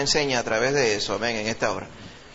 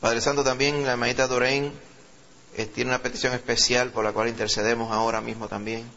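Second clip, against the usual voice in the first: real pastoral prayer, raised at first then settling; intercessory prayer; 3 semitones lower than usual. Real, not acted. Pastor prays over the congregation's petitions, earnest prayer. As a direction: pray in steady phrases, calling on the Lord.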